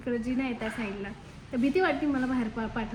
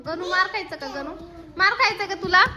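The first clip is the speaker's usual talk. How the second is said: warning scold; 4 semitones higher, 4 dB louder than usual. Real, not acted. Scolding climbing child.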